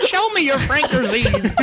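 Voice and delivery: slow, high put-on granny voice; mock grandma. Friend joining the grandma joke, slow high parody voice.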